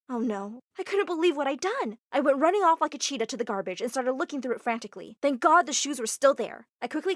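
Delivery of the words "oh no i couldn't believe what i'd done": usual speaking voice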